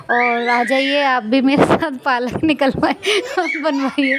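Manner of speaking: laughing through a playful invitation; joking, voice lifting into giggles. Real, not acted. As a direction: tease them, breaking into laughter. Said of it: "मैं मजाक कर रही थी".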